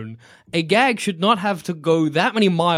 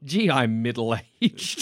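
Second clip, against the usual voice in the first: slow, low mock film line; mock Bridget Jones; 6 semitones lower, 4 dB quieter, much slower than usual. Moviegoer mocking a heroine announcing the premise, drawn-out parody. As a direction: drag out a spoof self-announcement. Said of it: "for her to be like".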